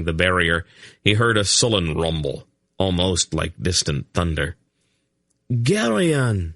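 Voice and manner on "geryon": high sharp cry of a name; cried out. A narrator's reading. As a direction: cry out in alarm. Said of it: "Laldoran cried".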